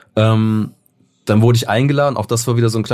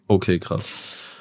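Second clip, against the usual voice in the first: quietly stunned; 3 semitones lower, 6 dB quieter, much slower than usual. Retold or imitated. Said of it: "wo du denkst".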